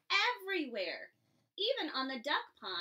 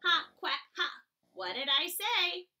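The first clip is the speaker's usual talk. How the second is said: louder mocking duck; gloating duck; 3 semitones higher, 5 dB louder than usual. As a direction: crow over her like a duck. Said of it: "cried the duck".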